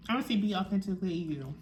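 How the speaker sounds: talking while chewing; words round a bite of food; mouth full. Real, not acted. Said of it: "Shouldn't talk with my mouth full".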